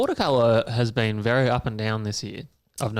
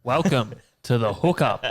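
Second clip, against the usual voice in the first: announcer intro; slower than usual. Acted. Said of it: "Pretty pro, isn't it?".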